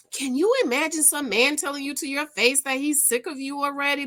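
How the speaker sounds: can you believe this man; shocked disbelief. Real, not acted. To her viewers, in shocked disbelief.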